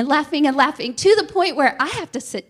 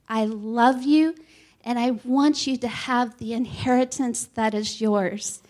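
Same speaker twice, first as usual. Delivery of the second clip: tender voice of God. Retold or imitated. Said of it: "I hear Father God tell me".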